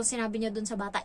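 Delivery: usual speaking voice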